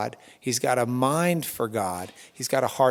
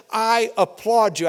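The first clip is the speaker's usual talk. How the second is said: euphoric applause; 7 semitones higher, 4 dB louder than usual. Retold or imitated. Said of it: "because of anything other than euphoria".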